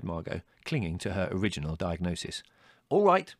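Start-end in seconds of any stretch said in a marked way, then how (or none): 2.9-3.3 high, loud, short burst; snapped. A narrator's reading. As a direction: snap back in temper. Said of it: "snapped Larry".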